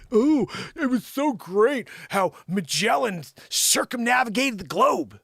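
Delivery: slow, singsong fake admiration; mock-awed, drawn-out praise; mock gushing. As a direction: gush slowly, mocking the admirers. Mimicking Magellan admirers in a bit.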